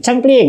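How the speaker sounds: playful button click; mock click sound. Shown as a demonstration. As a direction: voice the remote button going click. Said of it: "lo tekan seperti ini".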